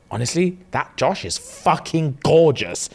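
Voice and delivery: slow, savoured admiration; with passion. Retold or imitated. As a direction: swoon over him, drawing out the words. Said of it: "You said it with passion".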